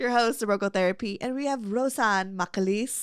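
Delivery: put-on light Filipino accent on a podcast greeting; a hint of a Filipino accent. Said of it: "I don't know why I'm doing a, a Filipino accent".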